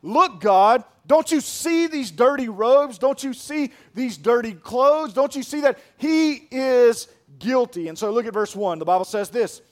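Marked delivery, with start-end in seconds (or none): 0.0-7.9 loud, higher prosecutor's outcry; Satan's accusing shout. Acted. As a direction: shout it at the judge like an angry prosecutor. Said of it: "Satan is basically saying".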